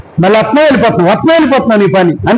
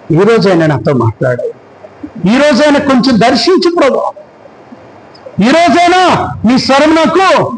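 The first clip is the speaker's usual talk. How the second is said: pleading prayer. Retold or imitated. Pastor voices a believer's prayer. (వేడుకునే ప్రార్థన)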